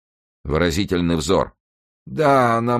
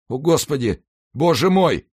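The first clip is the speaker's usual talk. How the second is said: high, anguished cry to God; horrified exclamation; 12 semitones higher than usual. Acted. Dying executioner dreads the monk's reveal, high horrified cry. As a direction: call on God in rising dread.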